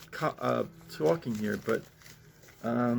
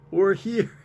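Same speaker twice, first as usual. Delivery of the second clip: mock sweet mom, higher and louder; mom popping up; 7 semitones higher, 6 dB louder than usual. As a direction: sing it out as the clingy mom. Mom voiced in comic.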